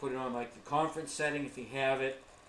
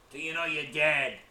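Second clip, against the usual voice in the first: bad question; 5 dB louder than usual. Shown as a demonstration. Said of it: "Don't know, you know".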